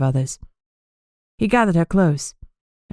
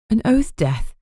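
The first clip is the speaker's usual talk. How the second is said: higher, stunned, half-hushed repeat; shocked repeat, higher and hushed; shocked hushed echo; 6 semitones higher, slower than usual. Acted. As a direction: say it like you can't believe it. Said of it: "she whispered".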